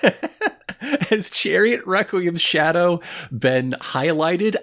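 high, grandiose oration broken by chuckles; theatrical mock-solemn announcement; mock proclamation. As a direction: declare it like a pompous decree. Mock-grand proclamation about shadows, friend laughing.

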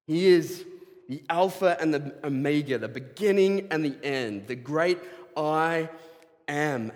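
rising sermon proclamation, slowing at the end; preaching. Acted. Pastor proclaiming God's names to the congregation, preaching.

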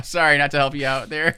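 laughing through an apology; amused, laughing while apologizing. Real, not acted. Laughs apologizing for unhelpful answer.

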